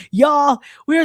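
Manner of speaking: playful Texas y'all; imitating Texas accent. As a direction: repeat y'all with a laughing Texas twang. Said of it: "My Texas accent came through".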